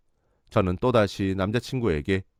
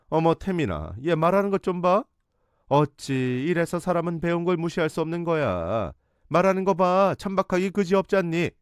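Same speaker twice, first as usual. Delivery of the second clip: much higher, hammed-up shocked fuss; mock-scandalized society lady; mother making a fuss to her son, much higher and theatrical; fussing theatrically; 8 semitones higher than usual. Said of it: "호들갑까지 떨면서".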